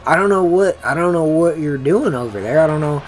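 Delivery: loud, high-pitched frustrated commentary; exasperated rant. Real, not acted. Frustrated rant about the cornerback.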